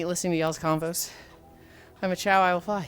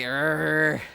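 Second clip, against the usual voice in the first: mock angry growl; 2 semitones lower than usual. Uncle mad that he liked it, growling. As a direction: draw out a frustrated growl. Retold Guga speechless with anger.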